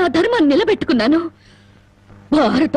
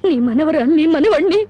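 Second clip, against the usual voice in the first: crying. Acted. Wife farewell to grandmother, crying.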